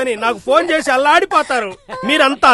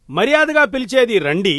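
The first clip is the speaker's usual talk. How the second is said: mock-poetic recital with measured line breaks; poem recital. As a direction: recite a home-made rhyme, landing on each end word. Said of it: "ఒక కవిత రాశాను". (కవిత చదువుతున్నట్టు)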